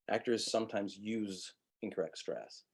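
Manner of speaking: "use" leaned on and held briefly; corrected emphasis, landing on "use"; stress on USE. Shown as a demonstration. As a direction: put the weight on "use". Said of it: "stress use".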